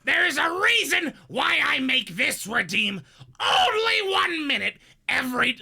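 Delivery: Gilbert Gottfried voice. Acted. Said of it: "the Gilbert, Gilbert Gottfried".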